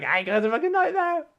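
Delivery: high, loud, put-on wail; mock despairing outburst; exasperated farmer. Farmer telling lost lads of his trouble, high mock wail.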